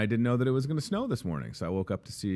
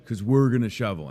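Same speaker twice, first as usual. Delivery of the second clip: put-on kid voice; 3 semitones higher, 5 dB louder than usual. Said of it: "They were like".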